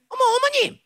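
high-pitched startled greeting on the phone; surprised sister. Acted. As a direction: react to an unexpected call. Sister answers the mother's call.

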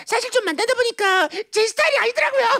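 high, chirpy confession; cheerfully guileless sister. Acted. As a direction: admit it blithely, with no shame at all. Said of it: "너무 해맑았죠".

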